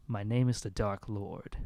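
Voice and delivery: half-remembered villain voice, slowed down; slow, understated evil-clone introduction; Dark Lord. Acted. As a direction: attempt a dark character voice, lightly. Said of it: "I can't really do the voice now".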